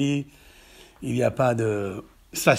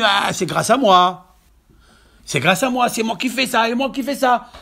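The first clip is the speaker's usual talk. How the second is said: raised, insistent mock boasting; self-crediting boast; 7 semitones higher, 6 dB louder than usual. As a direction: act out a partner claiming all the credit. Acts each boasting associate. (vantardise jouée, insistante)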